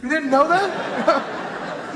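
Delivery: high, drawn-out laughing disbelief; slow incredulous question through a laugh; mock disbelief. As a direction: stretch it out, amazed anyone missed it. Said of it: "I'm like".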